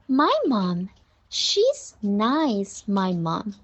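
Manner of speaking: gentle, affectionate model reading; tender. Shown as a demonstration. Teacher modelling calling mom's name, tender. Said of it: "很温柔地叫妈妈的名字".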